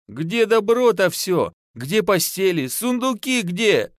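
half-sobbing, demanding the things back; wailing aloud. A narrator's reading. Wife to husband, a mild tearful wail. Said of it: "В голос зарыдала Танька".

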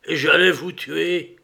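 horrified outburst; aghast cry. A narrator's reading. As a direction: cry it out, appalled at what you nearly did. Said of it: "cria-t-il".

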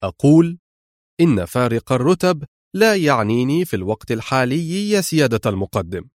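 firm, hard-edged reply; sternly. Acted. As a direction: lay down the line without give. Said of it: "قال أدهم في صرامة". (بصرامة وحزم)

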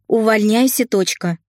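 resolute nanny. A narrator's reading. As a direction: quit with no going back. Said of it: "решительно заявила Марья Ивановна". (решительно, с нажимом)

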